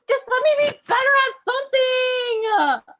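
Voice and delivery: high, loud desperate yell; exasperated outburst. Acted. Wisconsin losing the rivalry with Minnesota, exasperated outburst. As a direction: explode like a frustrated younger sibling. Wisconsin loses the acted argument.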